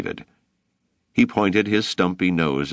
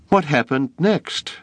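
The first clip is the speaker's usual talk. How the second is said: high, eager cry; boy crying out eagerly; cried out; 10 semitones higher than usual. A narrator's reading. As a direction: burst out with it. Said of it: "David cried".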